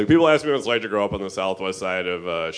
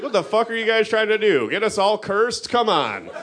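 exasperated rant; 10 semitones higher than usual. Retold or imitated. To neighbors blaming gypsies, high exasperated yell. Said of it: "It's like".

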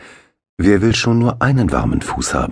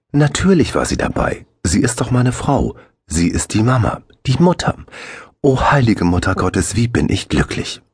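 rapturous father; 6 semitones higher than usual. A narrator's reading. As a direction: gush with happiness. Axel rapturous.

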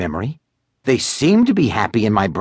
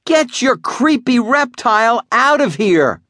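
high, slow angry yell; 12 semitones higher than usual. Acted. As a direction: chase the reptile out. Shouting at sister.

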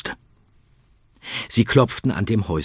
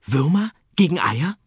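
put-on pleading boy; 9 semitones higher than usual. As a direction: beg the hens sweetly. Arthur suggests a trade.

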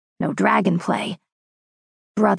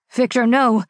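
alarmed cry; 5 semitones higher, 4 dB louder than usual. Acted. Narrator cries out at the swing.

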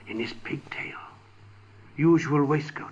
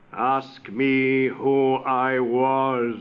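slow ghost voice; 5 dB louder, much slower than usual. Acted. Marley's ghost answers.

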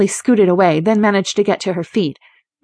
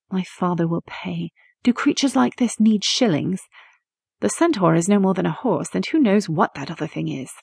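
softer, cold and mocking; cold scorn; 4 dB quieter than usual. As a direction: sneer the words back at her. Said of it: "her voice as cold as her eyes".

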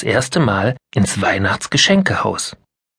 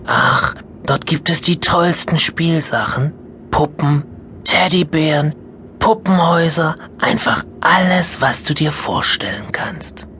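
higher, building, then whispered; enchanting grandma; 6 semitones higher than usual. Acted. Grandma describing the toy house, enchanting. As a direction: spin a magic picture.

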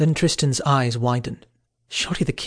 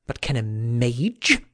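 spat with scorn; slower than usual. Acted. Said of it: "Sir Kay spat the last word".

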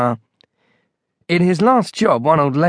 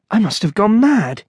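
higher-pitched bleak thought; bleak despair; 6 semitones higher than usual. A narrator's reading. Monk doubting his sanity, bleak despair. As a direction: despair of your own sanity. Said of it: "he thought bleakly".

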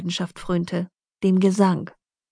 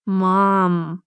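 indignant. A narrator's reading. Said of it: "unterbrach Ava sie empört".

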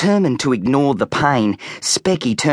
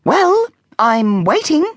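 slow, high impatient mother; impatient mum; 3 dB louder, slower than usual. A narrator's reading. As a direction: drag it out, waiting. Mum arms crossed.

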